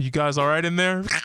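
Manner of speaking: put-on sad voice. Retelling how someone knocked and checked on the others, imitating a sad voice. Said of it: "But with this sad voice".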